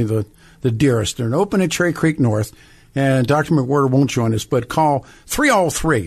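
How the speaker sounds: upbeat sponsor read; radio ad read. Acted. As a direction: read it like a live radio spot. Host reads a sponsor ad.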